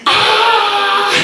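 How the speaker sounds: put-on a very high, sudden little-girl shriek of fright; child's scared shriek. Four-year-old sees the needle and shrieks in fright. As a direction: shriek it out like a kid who has just seen the needle.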